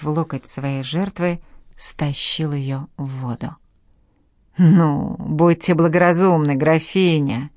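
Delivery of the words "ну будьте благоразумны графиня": louder, cold threatening hiss; menacing hiss. Acted. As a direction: hiss the warning like a killer. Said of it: "прошипел убийца".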